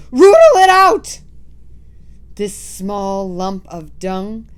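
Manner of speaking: high loud screech. Acted. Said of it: "screeched the Grand High Witch".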